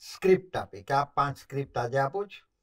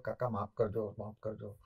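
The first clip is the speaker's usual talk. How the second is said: meek apology; 7 semitones lower, 11 dB quieter than usual. Retold or imitated. Apologizing to angry mentor.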